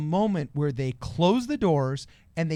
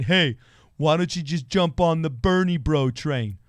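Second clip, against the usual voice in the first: pushy recruiter; 5 dB louder than usual. Pretend. Mock pitch to caucus voters.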